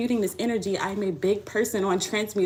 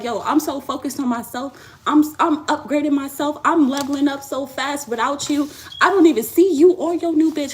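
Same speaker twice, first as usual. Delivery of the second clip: 1 girlfriend voiced; 5 semitones higher, 5 dB louder than usual. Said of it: "she's like".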